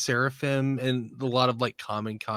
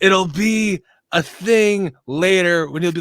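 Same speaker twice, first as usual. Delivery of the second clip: laughing shout; 9 semitones higher, 9 dB louder than usual. Real, not acted.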